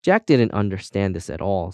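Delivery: usual speaking voice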